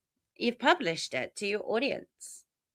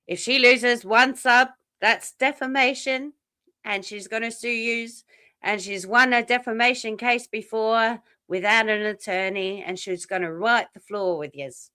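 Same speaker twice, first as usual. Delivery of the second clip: imitating a rager; 4 semitones higher than usual. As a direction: ham up her furious threats. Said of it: "She did a rager".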